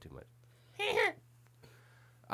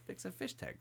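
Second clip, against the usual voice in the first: whisper; 8 semitones higher, 12 dB quieter than usual. Real, not acted. Whispered self-deprecating aside.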